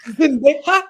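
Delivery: Zendaya with a Spanish Y sound, Zen-DAY-ha; Spanish accent. Pretend. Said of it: "He gave her a Spanish accent".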